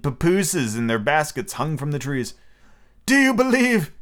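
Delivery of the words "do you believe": high, loud appeal; loud cry. A narrator's reading. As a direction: cry out to children far away. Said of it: "he cried".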